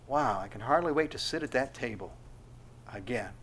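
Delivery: soft, low, wondering longing; hushed wonder. Acted. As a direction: breathe it out in quiet awe. Disciples' wondering reaction voiced.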